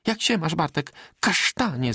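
bright lifted call of joy; joyful greeting. A narrator's reading. Magda greeting Bartek with joy. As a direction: greet him with rising gladness. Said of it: "zawołała z radością".

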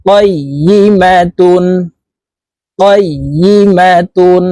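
"কইয়িমাতুন" drawn out slowly, ending on a clear n; slow recited "কইয়িমাতুন" with the nun sounded at the end; tanween with nun. Shown as a demonstration. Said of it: "নুন যুক্ত ভাবে পড়তে হবে". ("কইয়িমাতুন" টেনে, শেষে নুন যুক্ত করে)

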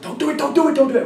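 high, pleading locals' voice; high-pitched pleading warning; mock pleading warning.

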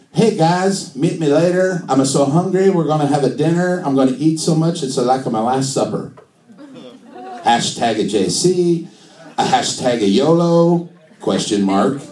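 sing-song mock Italian; upbeat hammed-up Italian accent; Italian-accented Jesus. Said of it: "do Jesus in an Italian accent".

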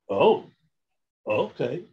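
a touch of sheepish surprise, rising; taken-aback compliance. Retold or imitated. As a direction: give in meekly, caught off guard. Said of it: "I, I shut up".

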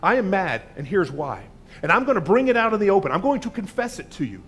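loud confessing prayer. Pretend. Pastor voicing a believer confessing anger to God, loud. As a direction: pour it out loud like a sinner at the altar. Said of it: "You admit it".

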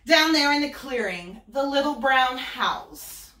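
put-on bright high voice of a vain little girl; sing-song Little Red bragging; high girlish Little Red. Wolf voicing Little Red telling of her trip to Granny.

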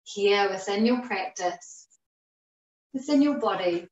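measured phrases that settle downward; guided meditation. Acted. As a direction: guide them gently into the present, unhurried. Leads breath meditation.

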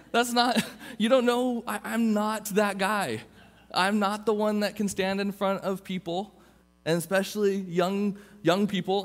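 put-on high, laughing protest of a nervous teen; panicked protest. Young man protesting God's call, high and laughing. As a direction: squeak out the excuses, half laughing.

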